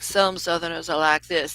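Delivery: lightly put-on Southern accent. Shown as a demonstration. Showing one way some Southerners talk, Southern accent. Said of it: "That's not what it's like".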